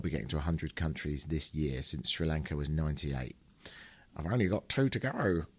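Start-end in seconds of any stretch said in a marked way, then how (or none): 4.1-5.5 lightly put-on silly voice on the countdown; odd put-on voice. Real, not acted. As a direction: slip into a slightly funny voice, drawing out GO. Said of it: "I said it in that voice".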